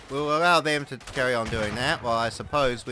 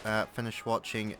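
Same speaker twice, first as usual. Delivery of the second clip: a lower, knowing inner voice; voice in my head; 5 semitones lower than usual. Acted. The voice in his head needling him about housework and anime, in a lower knowing tone. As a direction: speak as his own nagging conscience, a bit lower. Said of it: "how are you doing, voice in my head?".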